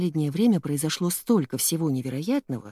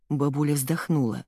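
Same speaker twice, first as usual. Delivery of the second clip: ordinary delivery, nothing marked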